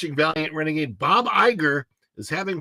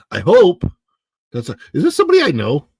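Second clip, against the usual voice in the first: surprised outburst; 5 semitones higher, 11 dB louder, faster than usual. Real, not acted. Sudden surprise at a name.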